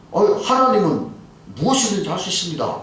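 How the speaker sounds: confident boast, voice lifted at the start; 호기로운 장담. Retold or imitated. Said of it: "이렇게 호기롭게 얘기했대요". (호기롭게 큰소리치는 말투)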